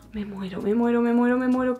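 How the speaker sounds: ordinary talk, nothing marked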